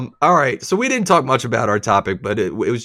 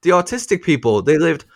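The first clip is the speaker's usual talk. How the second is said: put-on child voice; 7 semitones higher than usual. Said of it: "And he was like".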